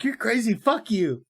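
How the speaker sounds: high mocking woman's voice; mock prostitute. Offended hooker snapping at Foster, high mock voice. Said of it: "she's like".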